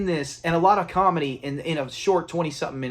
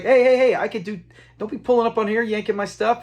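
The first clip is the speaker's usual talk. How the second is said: higher, lightly acted objection; mock indignant protest; 5 semitones higher than usual. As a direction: imitate a man fending someone off. Acts out Fred protesting at nurse.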